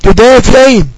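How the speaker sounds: slow, clear dictation of the example. Shown as a demonstration. Teacher giving students an example sentence, slowly. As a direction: dictate it word by word. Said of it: "أقول".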